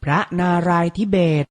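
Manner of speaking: พระนารายณ์ทิเบต said carefully as phra-na-rai-thi-bet; careful teaching read of พระนารายณ์ทิเบต; pronunciation model. Shown as a demonstration. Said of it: "อ่านว่า".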